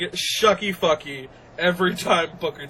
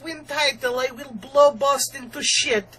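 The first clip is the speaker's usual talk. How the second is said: mock Russian accent; 6 semitones higher than usual.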